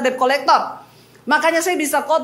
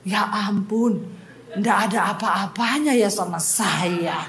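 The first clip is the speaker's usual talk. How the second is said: imitating counselee; 6 semitones lower, 4 dB quieter, slower than usual. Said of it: "Terus dia gini".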